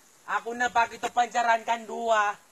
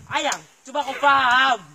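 louder exasperated plea; 7 dB louder than usual. Acted. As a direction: push harder, louder, begging her to understand. Arguing with girlfriend on phone.

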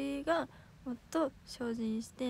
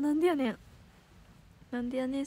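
louder snappy Kansai comeback; tsukkomi retort; 5 dB louder than usual. Shown as a demonstration. Idol showing fans how she says her comeback. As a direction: snap it like a comedy straight man. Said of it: "え、言いますよ。".

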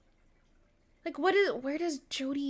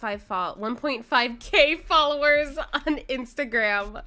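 vocal fry influencer; 3 semitones higher, 4 dB louder than usual. Acted. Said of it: "I love that you did it the same way".

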